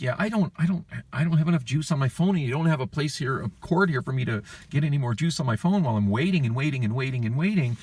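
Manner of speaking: high-pitched, sing-song griping; exasperated complaint. Retold or imitated. Customer griping to a banker about a dying phone, exasperated. Retold complaint at the bank counter.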